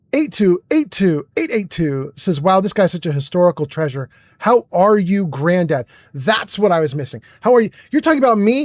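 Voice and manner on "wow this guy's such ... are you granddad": ordinary delivery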